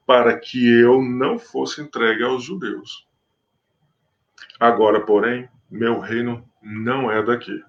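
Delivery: measured, solemn Bible reading; scripture reading. Acted. Preacher reading the Gospel to his listeners, solemn. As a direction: read the passage to the congregation with gravity.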